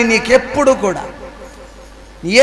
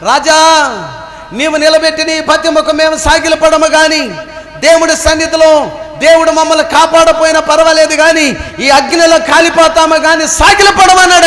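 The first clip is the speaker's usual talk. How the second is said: put-on raised, defiant voice of the three young men; defiant refusal; 3 semitones higher than usual. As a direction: declare it boldly to the king. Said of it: "అంటున్నాడు".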